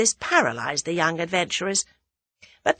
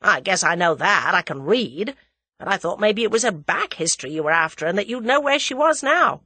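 Hersheimer, brusque American; 2 semitones higher, 3 dB louder than usual. Acted.

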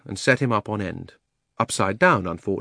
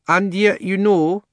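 elephant voice; 10 semitones higher, 5 dB louder, slower than usual. Acted. Elephant speaks in story.

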